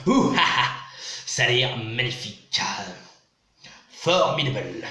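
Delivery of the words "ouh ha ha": high, loud "ouh, ha, ha"; mock kung-fu cries. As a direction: throw out playful, punchy martial-arts cries. Mock reaction to synopsis's revenge.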